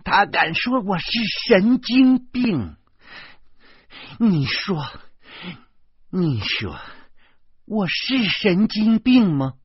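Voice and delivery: high, loud indignant demand; incensed shriek of a man insulted; outraged yelling. A narrator's reading. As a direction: shout it in disbelief, stretching the words. Enraged Yan Ming demands an answer.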